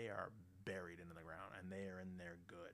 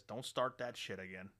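loud, slow, weighty rebuke; acted exasperation, loud and drawn out; exasperated punchline; 9 dB louder than usual. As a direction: land each word hard as the fed-up priest. Priest's exasperated punchline in joke.

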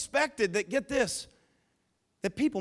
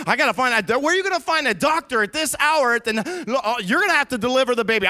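louder, fast, tripping over his words; frantic husband; 3 semitones higher, 5 dB louder, faster than usual. Retold or imitated. Joseph panicking in the cave about finding a doctor, loud and rushed. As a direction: scramble for a plan in panic.

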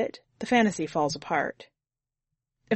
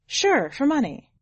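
chatty driver breaking the ice, pitched up; Susie; 7 semitones higher than usual. A narrator's reading. Driver asks hitchhiker his name, much higher voice. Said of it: "Susie answers Jimmy".

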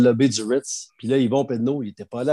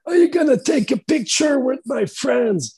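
much higher, slow, put-on rocker voice; impression of a rock singer; 12 semitones higher, slower than usual. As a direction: imitate a high, drawn-out rock-singer voice. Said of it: "Puis il a dit". (imitation d'un chanteur rock, voix beaucoup plus aiguë et lente)

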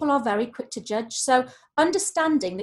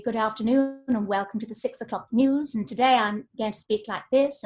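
lightly imitated old BBC newsreader RP; clipped Received Pronunciation. Shown as a demonstration. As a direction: put on clipped, posh RP for a news greeting. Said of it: "it was the very clipped, uh, received pronunciation".

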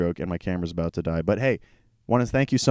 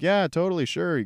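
eager yes; 9 semitones higher than usual. Retold or imitated. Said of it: "And we were like".

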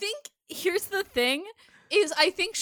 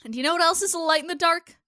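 mock segue; 2 semitones higher than usual. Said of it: "what a killer transition".

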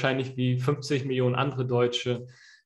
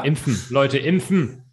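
urgent call; 7 dB louder, slower than usual. Real, not acted. Urging listeners to vaccinate.

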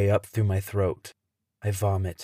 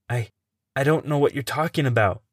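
stammer; 4 semitones higher than usual. Acted. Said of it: "I stammer".

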